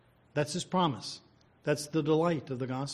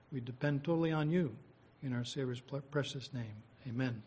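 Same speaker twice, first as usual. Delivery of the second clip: prayer; 3 dB quieter than usual. Real, not acted. Preacher thanks God for the word, in subdued prayer. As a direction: pray humbly on the congregation's behalf, softening toward the amen.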